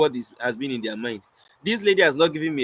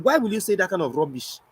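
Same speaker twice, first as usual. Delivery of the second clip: higher, indignant scolding; imitated furious lady; 4 semitones higher than usual. Offended lady scolding the poet over a line, mock fury. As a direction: mimic an offended woman's rebuke. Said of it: "very furious and pissed".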